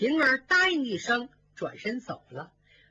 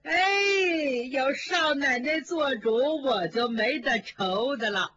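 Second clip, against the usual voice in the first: teary relief; 4 semitones higher than usual. Acted. Nanny relieved, near tears.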